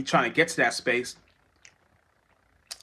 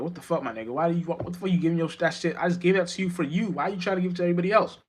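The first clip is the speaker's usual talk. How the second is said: quick, higher and baffled; exasperated scolding; 5 semitones higher, faster than usual. Retold or imitated. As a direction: scold them like a fed-up friend. God voiced scolding.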